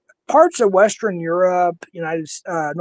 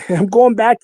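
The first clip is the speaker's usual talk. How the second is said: Minnesota accent; 3 semitones higher, 5 dB louder than usual. Shown as a demonstration. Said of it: "I'm going back instead of back".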